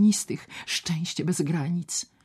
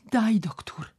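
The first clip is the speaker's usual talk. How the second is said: sick man's demand; 7 semitones higher than usual. Acted. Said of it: "Głos cichy, szeptany i prędki".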